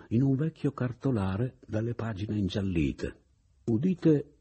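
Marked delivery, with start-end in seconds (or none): 3.7-4.3 loud, high proclaiming call; town crier. Acted. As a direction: announce it like a crier. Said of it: "nell'atto di recitare". (banditore che proclama a gran voce)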